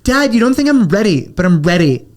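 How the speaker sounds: a hint of a whiny teenage daughter; mock whiny teen. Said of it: "she's like".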